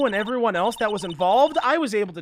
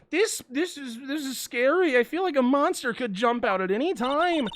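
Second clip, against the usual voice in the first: put-on higher, nervous girl voice; scared Maya voice; 4 semitones higher than usual. Player voicing Maya in the dark warehouse, lightly scared. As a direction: voice the timid assistant, a little spooked. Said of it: "voicing Maya scared".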